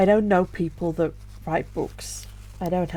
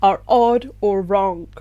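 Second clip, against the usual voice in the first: tearful whisper; 5 dB louder, slower than usual. Real, not acted. Emotional confession, voice breaking.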